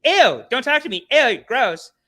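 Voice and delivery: put-on prissy valley-girl brush-off; disgusted girl. Imagined girls rejecting a guy, high mocking disgust. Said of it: "the girls are gonna be like".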